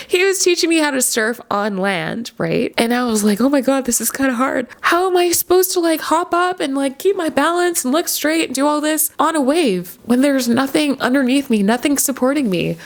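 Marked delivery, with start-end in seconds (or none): 3.4-12.8 higher, anxious rush of worry; lightly acted nervous beginner; retold panic. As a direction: replay the fear of falling, half-mocking it. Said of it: "I was so scared".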